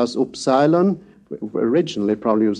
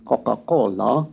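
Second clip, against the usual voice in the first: Italian "Coca-Cola", unaspirated k sounds; "Coca-Cola" in an Italian accent; Italian pronunciation. Shown as a demonstration. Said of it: "pronounced unaspiratedly, as in the Italian way".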